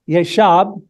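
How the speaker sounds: Yeshab, said carefully as a Hebrew word. Shown as a demonstration. Pastor sounding out the Hebrew Yeshab carefully. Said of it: "I'm gonna pronounce the word as best I can".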